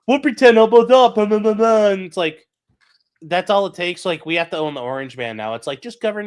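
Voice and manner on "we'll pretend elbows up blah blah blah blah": high mocking voice; mocking Canadians. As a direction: sneer it in a high sing-song. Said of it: "they're like".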